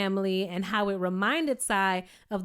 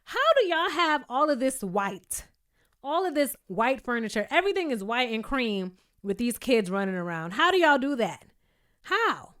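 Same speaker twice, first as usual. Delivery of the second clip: incredulous; 3 semitones higher than usual. Retold or imitated. Amazed at white furniture.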